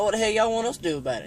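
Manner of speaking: fast, high, exasperated reply; incredulous retort. Retold or imitated. To hunting buddy asking the impossible, fast high disbelief. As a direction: fire it back in disbelief, quick and high. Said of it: "And I'm like".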